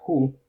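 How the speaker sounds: WHO with a soft, breathed H. Shown as a demonstration. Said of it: "mucho más suave que con una J". ("who" con hache suave, no como jota)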